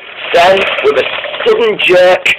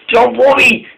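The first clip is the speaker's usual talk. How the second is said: higher-pitched, urgent call; urgent reassurance; 8 semitones higher than usual. A narrator's reading. Molly calls back to runaway Caitlin, urgent reassurance.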